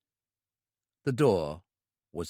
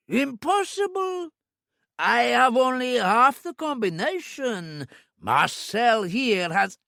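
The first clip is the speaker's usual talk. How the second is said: much higher, slow frightened pleading; panicked protest; 11 semitones higher, 3 dB louder, slower than usual. A narrator's reading. Owner protests he lacks the combination, high panicked voice.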